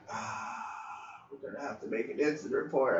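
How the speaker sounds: quick quiet mutter; fast grumble. Retold or imitated. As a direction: complain under your breath, fast. Grumbling about paperwork.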